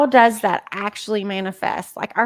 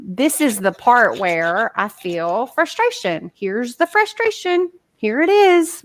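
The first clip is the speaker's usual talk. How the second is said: calm acceptance; 2 semitones higher than usual. Shown as a demonstration. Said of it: "rather than".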